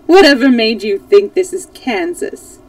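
loud, amused question; amused disbelief. A narrator's reading. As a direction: ask as if tickled by the idea. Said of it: "beginning to laugh".

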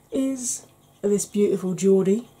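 loud, badly faked Geordie; bad Geordie accent. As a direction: have a poor go at a Geordie accent. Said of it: "the worst Geordie accent ever".

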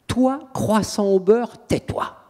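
mock the priest as the demon would; demon taunting priest. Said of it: "il fait au prêtre qui était là".

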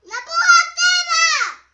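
slow booming yell; battle cry. Pretend. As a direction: roar it out slowly.

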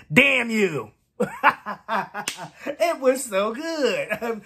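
real laughter breaking through the words; laughing. Real, not acted. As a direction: playfully curse them, then laugh. Playfully cursing whoever requested the song.

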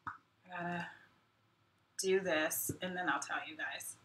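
soft whisper as she fiddles with the screen; half to herself, whispered; whispered aside. Real, not acted. Host whispering to viewers while she fixes things.

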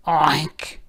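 a short storybook oink; pig oink. A narrator's reading. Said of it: "the pig said".

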